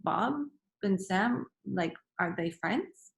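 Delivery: hesitant, with a rise on SAM; puzzled "are they FRIENDS?"; wondering question. Shown as a demonstration. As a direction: ask it unsurely, pausing after BOB. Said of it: "I'm not wondering that".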